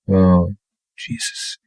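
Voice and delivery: whispered Jesus, almost breath only; stunned under his breath; barely audible horrified whisper; shocked whisper. A narrator's reading. Shock at tragic news.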